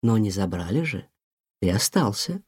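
mother comforting her son, tender. Acted. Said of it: "ласково сказала мама".

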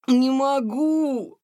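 high, slow, gasping cry of exhaustion; exhausted young cat refusing the drill, out of breath. Acted. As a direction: push it out with no breath left. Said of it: "Тихон едва дышал".

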